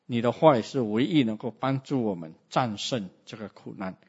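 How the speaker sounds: earnest, steady prayer voice. Acted. Preacher to God, praying with the congregation, earnest.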